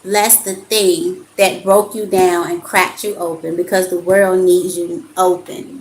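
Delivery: measured, emphatic reading of card text. Acted. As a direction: read the card like a gentle sermon. Reads oracle card aloud.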